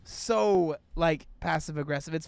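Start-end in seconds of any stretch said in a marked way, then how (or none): 0.0-0.8 drawn out through real laughter; laughing. Real, not acted. Creator cracking up at the guide's script, laughing. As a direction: laugh your way slowly through the words.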